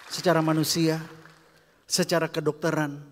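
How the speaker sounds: building emphasis. Acted. Repeated phrase, built up louder.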